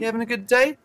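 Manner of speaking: Kiwi security guy. Retold or imitated. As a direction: imitate a gentle, high-voiced Kiwi guard. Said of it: "he always talks like this".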